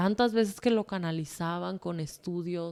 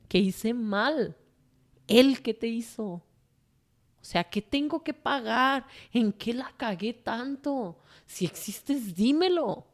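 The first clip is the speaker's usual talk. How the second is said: angry pleading; 4 semitones higher than usual. Retold or imitated. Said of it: "en ese momento yo decía".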